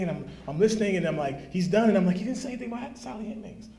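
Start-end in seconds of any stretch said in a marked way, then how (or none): 2.2-3.7 higher, softer and fast under the breath; muttering "Sally Hemings" to himself; muttered aside. Retold or imitated. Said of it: "So you know me".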